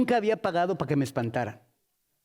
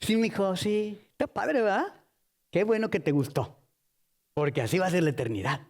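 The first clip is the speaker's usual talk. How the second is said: indulgent Jesus; 3 semitones lower than usual. Acted. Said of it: "Y, y Jesús, yo creo que".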